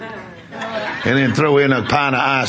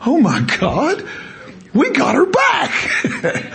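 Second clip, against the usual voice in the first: rising high, slow, laughing with relief; overjoyed, half laughing; relieved joy; 12 semitones higher, slower than usual. Retold or imitated. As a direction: let the joy break into a laugh. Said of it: "I'm going".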